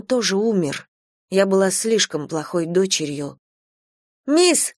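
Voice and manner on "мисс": high call across the bus. A narrator's reading. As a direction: call the teacher urgently. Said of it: "позвала одна из девочек".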